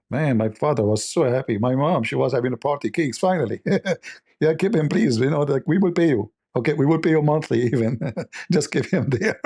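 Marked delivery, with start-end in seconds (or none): 4.4-9.4 higher, laughing mom begging them to keep him; a hint of a gleeful mother; mock relieved mom. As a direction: play the delighted mother, giggling through it. Mother voiced, pleading kidnappers.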